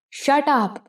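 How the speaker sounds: a lightly acted furious cry; screaming. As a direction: snap it out in sudden fury. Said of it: "رینو چیخ کر بولی".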